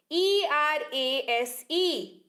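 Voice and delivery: letters spelled slowly one by one; slow spelling. Shown as a demonstration. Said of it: "इरेज यानी कि मिटाना".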